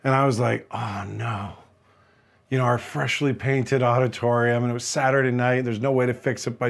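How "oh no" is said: low, quiet sinking groan of words; dismayed. Retold or imitated. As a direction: say it deflated, under the breath. Retold dismay at damaged wall.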